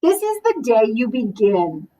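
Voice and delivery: gentle, even storybook reading; reading to children. Acted. Librarian reading a picture book to the class, gentle storytelling. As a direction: read it like story time for a class.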